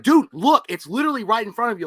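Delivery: loud, frustrated pleading; exasperated shout. Retold or imitated. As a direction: yell it at him in disbelief. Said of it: "you're like".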